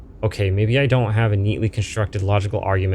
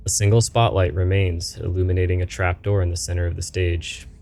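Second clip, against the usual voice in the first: calm game master narration; scene narration. A narrator's reading. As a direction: narrate the stage like a dark storyteller.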